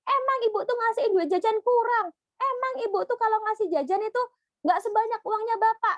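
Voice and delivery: high, mock-complaining whine; a hint of a sulky child griping; grumbling child. Child griping to mum about pocket money, high mock grumble. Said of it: "Dia misalkan ngomel-ngomel".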